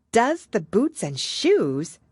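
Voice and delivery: put-on high, slow puzzled girl; Alice repeating it in wonder. A narrator's reading. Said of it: "in a wondering tone".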